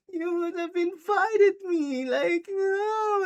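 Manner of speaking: very high, drawn-out whiny wail; mock tantrum. Possessed girlfriend left out, mock crying tantrum. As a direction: whine it out like a thrown tantrum. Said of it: "possessed Nikki was having a tantrum".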